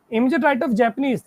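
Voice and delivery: slow, measured clue reading. Shown as a demonstration. Teacher dictating the next clue to the class, slowly. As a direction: read each word out carefully. Reads the question aloud.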